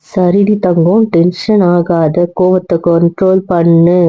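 slow, calming plea to a partner; soothing. Acted. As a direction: gently talk down an angry loved one. Soothing an angry spouse.

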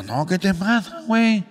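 high, loud nasal gangoso. Acted. Gangoso insisting to his friend he is a telephonist, high and loud. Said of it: "que era un gangoso".

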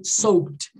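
"Soaked" as "sowt", k barely sounded; subtle consonants. Shown as a demonstration. Teacher repeating the model, subtle consonants. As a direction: let the k vanish in "Soaked". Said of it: "Ele é mais sutil".

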